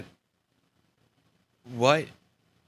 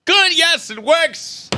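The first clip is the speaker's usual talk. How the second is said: loud, high-pitched shout of relief; big, loud burst of excitement; triumphant cheer; 7 dB louder, much slower than usual. Real, not acted. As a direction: cry out in triumph that it works. Excited cheer as the gadget works.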